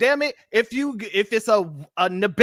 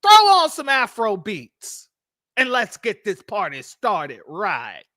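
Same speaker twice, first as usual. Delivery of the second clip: raised, annoyed complaining voice; irate. Retold or imitated. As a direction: act fed up and irritated. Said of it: "gets irate and says".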